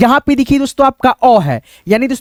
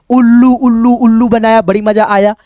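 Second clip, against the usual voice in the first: playful rhyme. Acted.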